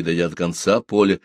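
ordinary delivery

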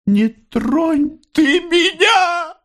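high, slow, crying shout; anguished cry. A narrator's reading. Mother crying out to her son, high anguished shout. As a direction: wail it out in grief. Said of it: "тоскливо крикнула она".

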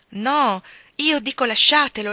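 loud and impetuous. A narrator's reading. Hargrave urges Helen to leave her husband, loud and impetuous. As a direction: burst out, urging her. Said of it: "disse in tono impetuoso".

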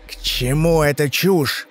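slow hissed contempt; through gritted teeth. Acted. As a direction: squeeze it out between teeth. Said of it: "процедил Дильс".

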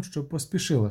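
usual speaking voice

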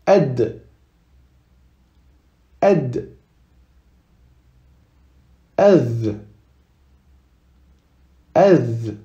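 Ed ending in a voiced dh with the tongue between the teeth; Arabic dhal with sukun. Shown as a demonstration. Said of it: "on met bien la langue entre les dents".

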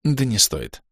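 courteous refusal of a ghost's offer; polite refusal. Acted. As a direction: decline it politely. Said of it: "отказался я вежливо".

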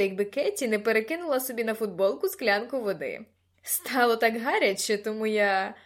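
put-on loud, eager boy rambling on; brash, talkative lad; Gordon, pestering admirer. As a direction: gush at her over the music, loudly.

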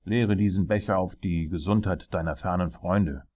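loud royal command; tyrant king. Acted. King making his jester drink, commanding. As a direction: order it with a king's authority.

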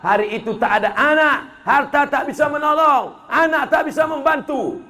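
sermon building from measured to high-pitched cry; fervent preaching. Acted. Preacher warning the congregation of judgment day, fervent. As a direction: preach it, rising line by line.

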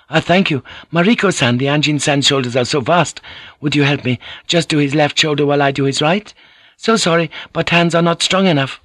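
high, lilting hostess voice; courteous hostess. A narrator's reading. Voices Kiku in story.

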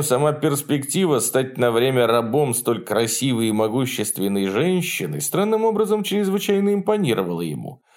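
plain reading voice

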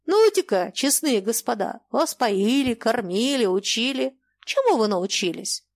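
lightly voiced stern old merchant holding forth; old merchant lecturing. Old merchant lecturing his daughter, stern and preachy. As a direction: preach it like a shrewd old trader. Mayakin's long monologue voiced.

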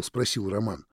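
ordinary delivery

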